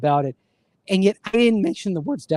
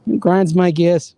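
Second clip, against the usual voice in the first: put-on slow, loud stab at a Rhode Island accent; drawn-out attempt at a New England accent; 2 semitones higher, 5 dB louder, slower than usual. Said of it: "the Rhode Island, New England accent".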